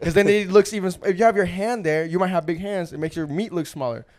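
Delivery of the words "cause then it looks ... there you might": explaining through laughter; laughing. Real, not acted. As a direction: laugh as you lecture.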